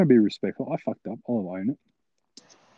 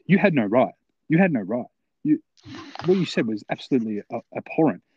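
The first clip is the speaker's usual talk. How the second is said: mock indignant telling-off, pitched up a little; indignant retort; 3 semitones higher than usual. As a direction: imitate someone newly empowered, scolding. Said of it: "got a little bit of power".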